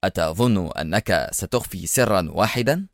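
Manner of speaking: understated mocking question; sarcastic. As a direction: ask it with a touch of scorn. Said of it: "أجابه أدهم ساخرا".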